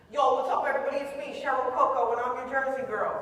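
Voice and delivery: a hint of a loud, hyped vlogger greeting; lightly hammed-up Jersey-girl vlog intro; old vlogger intro. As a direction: throw out a cheesy Jersey-girl hello, lightly. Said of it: "That used to be me".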